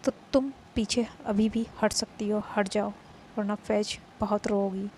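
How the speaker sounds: loud, taunting rival's vow; loud jealous dare; defiant challenge. Acted. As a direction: throw the challenge back loudly.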